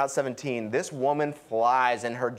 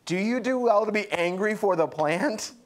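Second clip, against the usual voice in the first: laughing; 5 semitones higher than usual. Real, not acted. Reading God's question, laughing.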